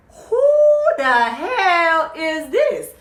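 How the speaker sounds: high, loud, shocked shriek; outraged shriek at the stranger in the room; shrieked outrage. Retold or imitated. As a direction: scream it like the caught girlfriend. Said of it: "she's just like".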